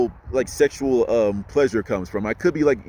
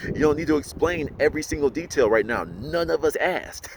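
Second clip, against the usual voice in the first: mock exasperation; 3 semitones higher than usual. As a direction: act out a fed-up listener, stretching the words. Acting out fed-up listeners.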